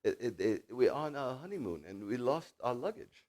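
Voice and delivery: lightly imitated German accent; halting words in a mock German accent. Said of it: "the German accent".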